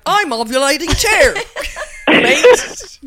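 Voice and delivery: mock Aussie.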